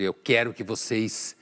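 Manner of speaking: lightly imitated alarmist demand, stretched loud final word; mock urgent command, pitch lifting on the last word; Greta Thunberg. Commentator quoting an activist to illustrate finger-pointing, mock urgent demand. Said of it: "Ele cita a Greta Thunberg".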